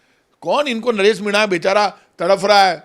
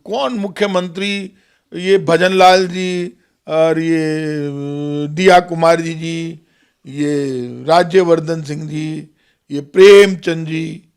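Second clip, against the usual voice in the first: slow, drawn-out sarcastic roll call; mock puzzlement; 2 semitones lower, slower than usual. Real, not acted. Politician dismissing the reporter's list of ministers, sarcastically puzzled. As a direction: drag out each name as if struggling to place it.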